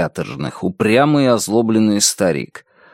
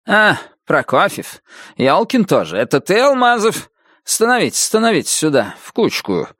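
hurried but soft major; 7 semitones higher than usual. A narrator's reading. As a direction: hurry them in gently. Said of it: "уторопленным, но мягким голосом".

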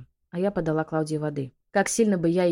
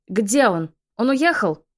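higher and louder, frantic demanding cry; frantic shout; 6 semitones higher, 7 dB louder than usual. A narrator's reading. Witch bursting into the yard, shrieking demands. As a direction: burst in screaming for answers. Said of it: "ворвалась во двор с воплем".

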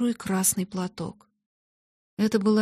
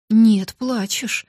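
slow, louder, firm insistence; insisting; 6 dB louder, much slower than usual. Acted. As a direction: drag it out, insisting. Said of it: "настаивала Джесси". (настойчиво, с нажимом)

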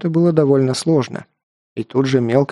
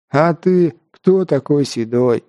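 mocking mimicry; 2 semitones higher, slower than usual. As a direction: mimic him in a whiny, wheezy echo. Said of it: "передразнил я".

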